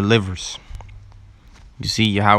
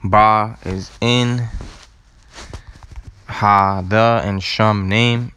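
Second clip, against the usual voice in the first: slow breakdown; much slower than usual. Shown as a demonstration. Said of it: "Ba Hashem is in the name".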